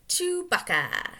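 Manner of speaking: a high stretched Chewbacca growl on the name; drawn-out creature cry; Wookiee-ish. Acted. Naming the Wookiee.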